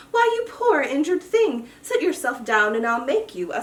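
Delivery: caring cry. Acted. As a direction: fuss over the hurt duck. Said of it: "cried James".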